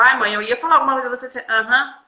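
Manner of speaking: quick teasing mimic of a mother's lazy reply; mocking imitation. Daughter teasing her mother, quick mocking imitation. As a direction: rattle it off, teasing mom's brush-off. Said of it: "Ela mesmo tá como me imitando".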